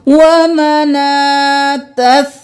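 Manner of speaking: slow, chanted tajweed recitation; Quranic recitation. Shown as a demonstration. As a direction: chant it slowly, stretching the vowels. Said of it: "drills word slowly".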